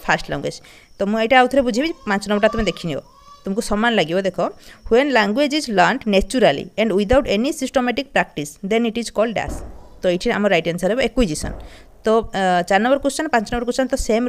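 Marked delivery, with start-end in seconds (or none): 4.9-9.6 slow, careful reading of the question. Shown as a demonstration. Teacher reading a question to students, slow and careful. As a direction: spell the question out slowly for the class. Reads exam question aloud.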